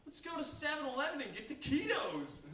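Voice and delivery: gleeful invitation to a new buddy; excited. Retold or imitated. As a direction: pitch it up with excitement. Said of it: "I go".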